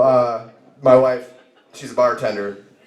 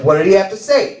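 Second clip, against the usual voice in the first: keen, pitched-up asking; eager question; 4 semitones higher than usual. Retold or imitated. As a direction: press for the answer, voice lifted. Retake, eager question to wife.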